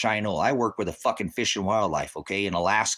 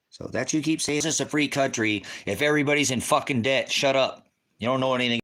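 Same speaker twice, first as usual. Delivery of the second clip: higher-pitched, exasperated retort; heated argument; 6 semitones higher, 3 dB louder than usual. Real, not acted. Streamer argues with a chatter about a free country, exasperated. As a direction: argue back with rising exasperation.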